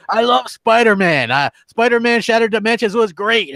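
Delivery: mock New York accent, enthusiastic; Boom. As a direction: imitate a gushing New Yorker. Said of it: "he does that thick New York accent".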